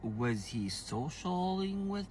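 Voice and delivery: retelling her own shocked reaction; shocked disbelief. Retold or imitated. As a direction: voice jumps up high in disbelief. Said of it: "And I was like".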